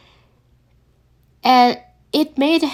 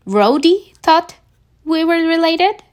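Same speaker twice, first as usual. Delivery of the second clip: shocked disbelief; 7 semitones higher, 3 dB louder than usual. A narrator's reading. Peter to Friday, stunned and incredulous, higher. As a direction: stretch it out, can't believe it.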